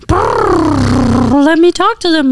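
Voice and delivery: high, very slow horse voice; bright horse voice. Acted. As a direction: stretch it out high and gentle. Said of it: "your voice got brighter".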